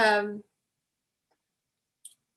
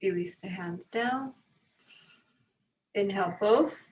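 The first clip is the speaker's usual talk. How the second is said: guided breathing. Real, not acted. Leads breathing exercise.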